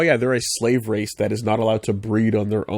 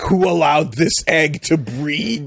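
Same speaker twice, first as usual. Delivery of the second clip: slow Vader voice; 4 semitones higher, slower than usual. Retold or imitated. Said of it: "Vader sees an egg and he goes like".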